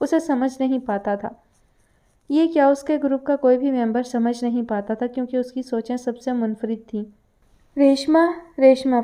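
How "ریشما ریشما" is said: roaring, bellowing shout, louder. Reading a novel aloud, a character calls for a servant: roaring shout. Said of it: "چنگھاڑتی ہوئی آواز".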